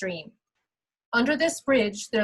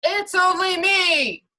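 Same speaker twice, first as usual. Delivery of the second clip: much louder, higher, slow big billy goat; even bigger goat voice; 9 semitones higher, 7 dB louder than usual. Acted. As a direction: boom it out bigger than the troll. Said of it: "replied in an even bigger voice".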